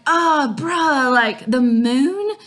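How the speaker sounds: put-on high, loud incredulous girl; sassy Juliet. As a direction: scoff up high in disbelief. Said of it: "Juliet's like".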